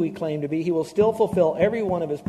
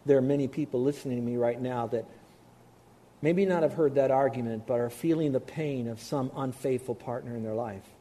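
softer, gentle and sincere; tender; 4 semitones lower, 3 dB quieter than usual. Real, not acted. Preacher tenderly addressing hurting listeners, softer. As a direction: speak gently to those who are hurting. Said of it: "I want to say this very tenderly".

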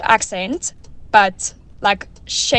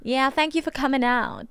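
higher, attempted Texas accent; imitating a singer; 4 semitones higher, 4 dB quieter than usual. Contributor trying the singer's voice, Texas accent. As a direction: have a go at a Texan singer. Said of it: "not sure how she does it".

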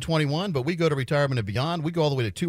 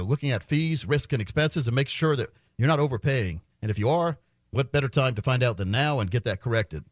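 steady radio sales pitch; infomercial. Acted. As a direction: pitch the offer like a radio host. Live on-air ad pitch.

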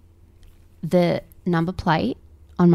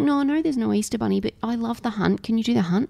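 put-on pleading child; 6 semitones higher, faster than usual. Retold child pleading for egg hunt.

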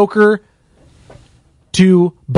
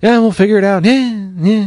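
imitating a team shrugging it off, slightly higher pitched; mock half-hearted assurance; 4 semitones higher than usual. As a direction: lightly mimic noncommittal reassurance. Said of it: "that's how it's kind of felt".

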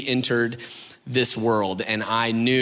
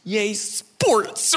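fake enthusiasm; 6 semitones higher than usual.

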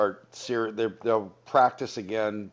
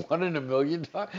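surprised echo; 6 semitones higher than usual. Real, not acted. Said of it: "Did you get that?".

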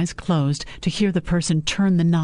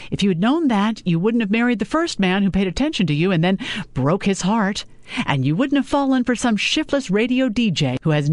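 mother's voice, higher, sharply scolding; mother scolding her daughter about her choices; 4 semitones higher than usual. Acted. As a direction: cut in high and scolding.

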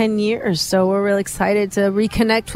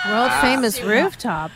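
a light Australian twang on the phrase; mock Aussie accent; 2 semitones higher than usual. Singer copying the hosts in a playful Australian accent. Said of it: "I love your Aussie accent".

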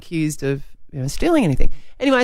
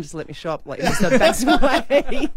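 annoyed shopper; 5 semitones higher than usual. Retold or imitated. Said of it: "the lady's going".

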